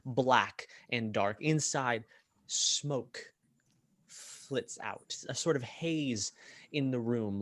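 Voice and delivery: measured scene-setting with lingering pauses; game master narration. Acted. Game master describing a gambling tent to players, measured scene-setting narration. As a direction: draw out the key details, pausing between images.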